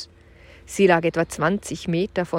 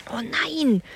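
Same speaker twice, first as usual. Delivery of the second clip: startled; 7 semitones higher than usual. Acted. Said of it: "stieß Kim hervor".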